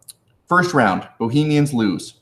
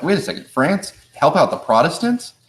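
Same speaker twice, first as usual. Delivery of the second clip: higher-pitched mock disbelief; incredulous questioning; 5 semitones higher than usual. Teacher voices people doubting France helping Protestants, incredulous questioning. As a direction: question it like a baffled onlooker, pitched up. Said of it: "And people are like".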